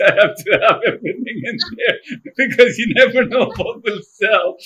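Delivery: laughing through a mock boast; joking, laughing. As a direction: tease yourself, giggling. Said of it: "Obviously, it's a joke".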